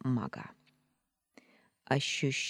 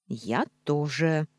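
indignant cat; slower than usual. Acted. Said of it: "возмутился кот".

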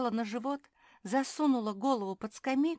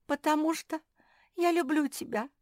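высоко, со сдержанным плачем; признаётся, заплакав, без рыданий; сквозь слёзы; 10 semitones higher, 6 dB louder than usual. A narrator's reading. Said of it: "заплакала бульдожка". (лёгкий намёк на плач, высоко)

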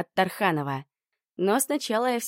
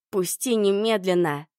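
growled. Acted. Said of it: "прорычала я".

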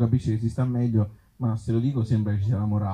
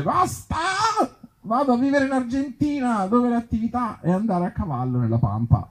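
decided character voice; 10 semitones higher than usual. Acted. Brazilian character decides to leave.

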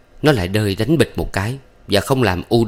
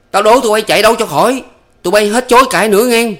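fast furious shout, much higher and louder; angry yell; 14 semitones higher, 7 dB louder, faster than usual. A narrator's reading. Ba Lành yelling after the fleeing lovers, fast angry shout. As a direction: hurl the threat after them, quick. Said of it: "vội quát theo".

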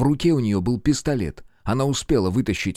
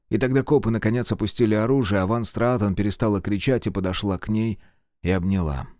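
ordinary delivery

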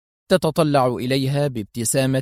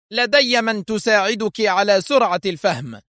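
much higher, nervy menace; irritable threat; 8 semitones higher than usual. A narrator's reading. Assistant angrily threatening Mona with someone to teach her. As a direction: threaten her through clenched anger. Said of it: "ثم قالت في عصبية".

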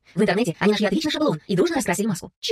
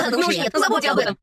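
amused, dismissive refusal; mocking boy laughing them off. A narrator's reading. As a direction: scoff through a laugh. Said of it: "Мальчишки от души захохотали".

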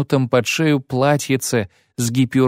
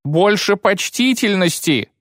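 high, cracking indignant cry; a matron's voice breaking in outrage; cracked cry; 10 semitones higher than usual. Acted. Matron shouting at the bandit in a cracking voice. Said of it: "крикнула ломким голосом дама".

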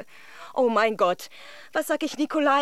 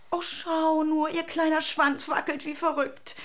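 delighted whisper; 5 semitones higher than usual. Acted. Delighted over the dog.

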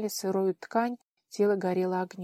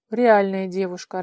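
louder, startled disbelief; bewildered; 8 dB louder than usual. A narrator's reading. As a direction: say it like he can't believe his eyes. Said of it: "растерянно покачал головой тот". (растерянно, громче)

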